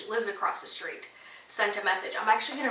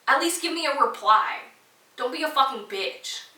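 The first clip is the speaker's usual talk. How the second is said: higher, louder real annoyance; heated; 6 semitones higher, 5 dB louder than usual. Real, not acted. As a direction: tell her off to her face. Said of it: "I'm even getting heated about it now".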